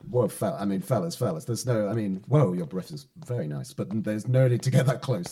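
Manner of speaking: a flustered plea as they close in; nervous protest. Acted. Cornered by the thugs.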